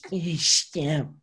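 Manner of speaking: imitating her fake giggle; mock laugh of the girl. Showing how the birthday girl laughed, a mocking giggle. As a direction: do her rude little laugh. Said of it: "she goes like this".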